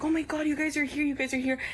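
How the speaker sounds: high mock-tearful exclamation; imitating tearful relief. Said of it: "she starts crying, and she's like".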